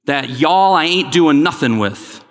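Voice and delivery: playful, slow Southern phrasing; lightly put-on Southern accent. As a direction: say it for Southern friends, a slow folksy Southern take. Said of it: "that was for my Southern friends".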